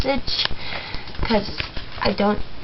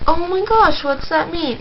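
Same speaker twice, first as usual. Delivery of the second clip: surprised; 4 semitones higher than usual. Retold or imitated. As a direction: gasp it out, innocently confused. Confused by the swear word.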